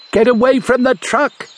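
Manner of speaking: urgent shout. A narrator's reading. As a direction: yell the warning as you run. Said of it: "he shouted".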